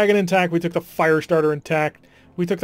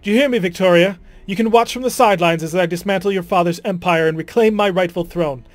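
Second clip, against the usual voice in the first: commanding vow; 2 semitones higher, 3 dB louder than usual. Acted. Acted vow to imprisoned cousin.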